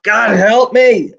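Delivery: a high, slow, loud cry for help; desperate scream. Retold or imitated. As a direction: cry out to God with everything left. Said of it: "And I just screamed out".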